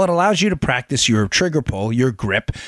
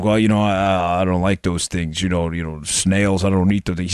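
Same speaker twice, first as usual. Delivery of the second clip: Rocky impression; 10 semitones lower than usual. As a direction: drop deep and slur like Rocky. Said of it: "And Rocky's like".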